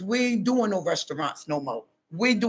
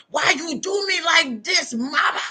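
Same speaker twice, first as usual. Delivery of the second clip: pleading to mama; 6 semitones higher than usual. Retold or imitated. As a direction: cry out why you do me like this. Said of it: "ask mama why she do".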